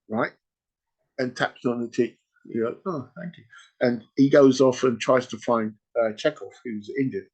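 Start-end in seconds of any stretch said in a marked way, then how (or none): 2.9-3.4 soft, higher little thanks; grateful old woman. Retold or imitated. Old patient thanking the doctor for tablets, lightly voiced, soft and high. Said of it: "he meets this old woman in a chair".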